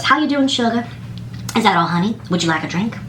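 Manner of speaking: lightly voiced, sugary server greeting; a hint of a honeyed drive-thru lady; sweet drive-thru lady. Mimicking the drive-thru lady for viewers, lightly sugary. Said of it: "that's how the lady at this drive-thru was".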